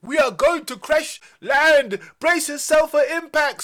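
high, loud frightened yell; panicked pilot yelling to brace; scared scream. Acted. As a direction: scream a crash warning in terror. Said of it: "screamed Zoe in a scared voice".

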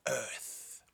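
breathy whispered reveal; hushed cliffhanger Earth; dramatic whisper. Acted. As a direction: drop to a whisper for suspense.

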